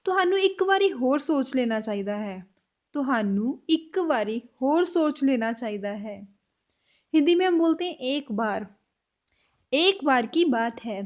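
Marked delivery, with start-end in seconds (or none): 2.9-6.2 slower, clearer Punjabi line; slow repeat. Shown as a demonstration. Teacher slowing the Punjabi line for learners. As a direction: lay out each word slowly. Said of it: "Punjabi में कैसे बोलेंगे".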